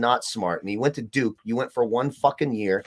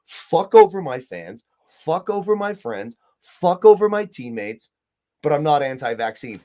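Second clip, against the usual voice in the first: mocking Kyrie Irving; 3 dB louder than usual. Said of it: "You cannot say".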